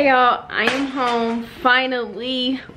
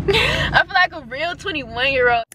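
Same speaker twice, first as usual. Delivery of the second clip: teary laughing; 4 semitones higher than usual. Real, not acted. Overjoyed about braces off.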